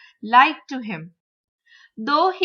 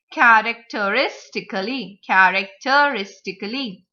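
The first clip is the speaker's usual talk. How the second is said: CHARACTERISTICALLY with weight on RIS; fourth-syllable stress. Shown as a demonstration. Teacher modelling six syllabic words, fourth syllable stressed. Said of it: "you have to stress on the".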